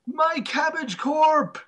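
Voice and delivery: high, drawn-out outraged cry; mock anguished yell. Retelling the merchant being taken away, high mock yell. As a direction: yell it out, stretching every word. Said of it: "he yelled".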